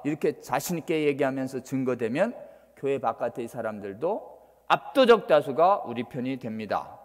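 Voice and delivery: ordinary talk, nothing marked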